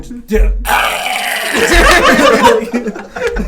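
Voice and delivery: stubbed-toe death-metal shriek; long, loud harsh scream; deathcore scream. Shown as a demonstration. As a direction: scream in pain like a metal vocalist.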